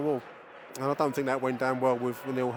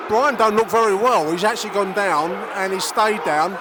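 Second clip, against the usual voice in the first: loud, higher commentary, furious at the referee; outraged play-by-play; 7 semitones higher, 8 dB louder than usual. Real, not acted. Fan commentator fuming to listeners about poor refereeing, loud and outraged. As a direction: rage at the ref while calling the game.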